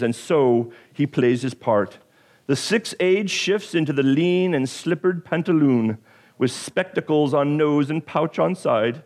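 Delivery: dramatic poem reading; Shakespeare recital. Shown as a demonstration. Pastor reciting Shakespeare to congregation, dramatic reading. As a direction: recite it like a stage actor. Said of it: "here goes my Shakespeare as best that I can do".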